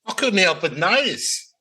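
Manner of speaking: high, slow sly detective; Columbo. Pretend. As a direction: lean in like a TV detective, slowly. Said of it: "Aussie Colombo".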